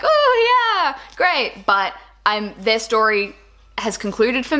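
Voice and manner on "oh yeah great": sarcastic. Retold or imitated. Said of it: "allure ... is still like".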